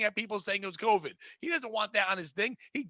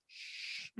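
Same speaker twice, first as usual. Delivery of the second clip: whispered shush; whispered shh to keep quiet; imitated shush; 19 dB quieter than usual. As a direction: hush him with a whisper. Bobby hushing him.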